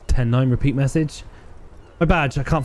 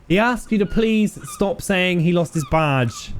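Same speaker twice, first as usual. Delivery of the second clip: much higher, gleeful cop calling a buddy over; giddy with the joke, laughing; 11 semitones higher than usual. Acted. Cops mocking, laughing.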